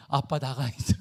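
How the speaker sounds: low, understated order, lightly voiced; nephew dismissing dad. Imitating sick nephew sending dad out, low and deadpan. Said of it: "내 조카가 딱 일어나더니".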